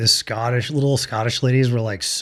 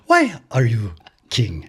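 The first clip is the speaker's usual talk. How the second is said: Kubala voice. Acted. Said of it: "You sounded like Kubala".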